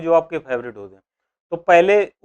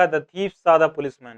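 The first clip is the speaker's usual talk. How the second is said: slow dictation; much slower than usual. Shown as a demonstration. Teacher reads example sentence.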